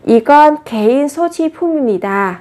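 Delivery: 소지품입니다 said fast, running together as 소지푸밈니다; quick linked reading. Shown as a demonstration. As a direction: read 소지품입니다 quickly in one linked run. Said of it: "Thường là khi đọc nhanh ấy".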